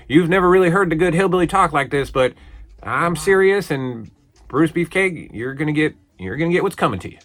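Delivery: mock-solemn warning in a wrestler's promo; very serious. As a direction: play a hillbilly vowing revenge in earnest. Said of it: "he talks very seriously about".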